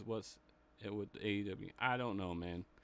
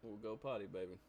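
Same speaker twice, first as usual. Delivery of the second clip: quiet; 8 dB quieter, faster than usual. Real, not acted. Aside to his child off-camera.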